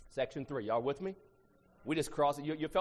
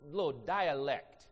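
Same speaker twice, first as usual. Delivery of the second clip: Texas accent; much slower than usual. Shown as a demonstration. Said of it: "some can speak English in Texas".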